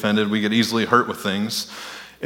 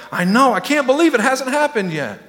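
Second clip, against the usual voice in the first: much higher, hammed-up dismay; mock sympathetic God; 11 semitones higher than usual. Preacher parodying God agreeing with a whiner, higher. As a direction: play God as a clueless friend. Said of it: "And God's like".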